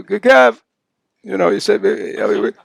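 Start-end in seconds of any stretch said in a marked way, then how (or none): 0.0-0.6 put-on high, loud baby babble, stumbling on the name; a toddler straining to say his own name; baby's first word. A parent mimics baby Kevin's first try at his name, high and loud. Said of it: "we get all excited when Kevin go".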